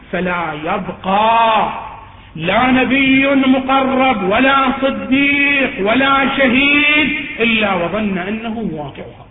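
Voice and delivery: slow, drawn-out sermon recitation; preacher's declamation. Acted. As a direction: stretch each phrase out for weight. Declaims the quoted narration.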